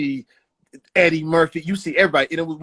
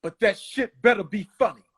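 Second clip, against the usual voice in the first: raised-pitch relayed order; retold yell; 4 semitones higher than usual. Mike's man ordering the comic on stage, mild yell. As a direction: call it out as a warning. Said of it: "then the dude yells out".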